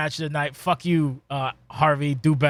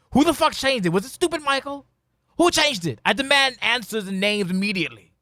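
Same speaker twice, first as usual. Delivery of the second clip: mock outrage; 5 semitones higher than usual. Mock outrage over renamed move.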